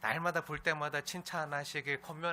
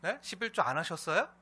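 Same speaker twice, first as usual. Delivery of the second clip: mock telling-off, raised pitch and volume; scolding; 5 semitones higher, 7 dB louder than usual. Pastor acts out chiding the congregation over tithes, scolding. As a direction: press the questions like a nagging reproach. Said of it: "막 이렇게 맨날 혼내고".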